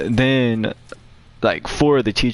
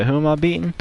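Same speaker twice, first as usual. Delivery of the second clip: higher-pitched playful question; half-serious, pitched up at the end; joking; 6 semitones higher, faster than usual. Retold or imitated. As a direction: retell it as a joking offer to fight. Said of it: "like, jokingly".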